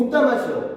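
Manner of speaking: sneering voice.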